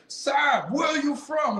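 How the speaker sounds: sing-song mock parent; lightly voiced curious mother. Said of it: "It's like".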